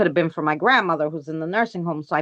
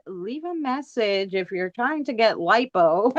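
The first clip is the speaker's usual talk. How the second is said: mock voicemail; 2 semitones higher, slower than usual. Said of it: "change my phone message to".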